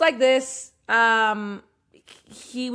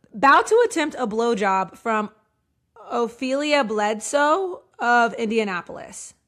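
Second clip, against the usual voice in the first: mock all caps; 5 dB louder than usual. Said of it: "in all caps with an exclamation point".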